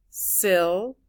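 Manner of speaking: Syllable split into syl, la, ble; three separate beats in Syllable. Shown as a demonstration. Teacher counting three syllables, Syllable broken up. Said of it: "there are three syllables".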